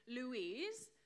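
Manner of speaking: "Louise" said as loo-EEZ; "Louise" with the weight on EEZ; mispronounced name. Shown as a demonstration. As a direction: give "Louise" as a wrong version of the name. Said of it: "pronounce my name wrong".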